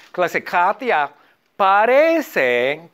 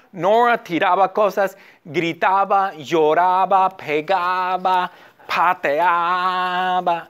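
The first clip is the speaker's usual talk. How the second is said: slow down more and more, dragging out "pateaba"; drawn-out listing; slower than usual. Shown as a demonstration. Teacher lists Nora's childhood misdeeds, drawn-out listing. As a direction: list each misdeed with stretched endings.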